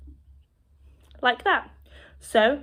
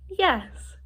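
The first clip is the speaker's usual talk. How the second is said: higher-pitched, smiling demonstration; smiling yes; 6 semitones higher than usual. Shown as a demonstration. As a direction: say yes through a smile. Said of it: "I was kind of smiling".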